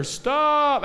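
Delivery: high, loud warning yell. Pretend. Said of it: "he's gonna get louder".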